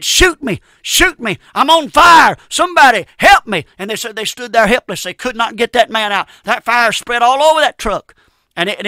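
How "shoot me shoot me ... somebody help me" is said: high, loud desperate scream to be shot; desperate plea. Retold or imitated. Burning man begs the trooper to shoot him, screaming. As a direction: beg the trooper to end it. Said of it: "he said".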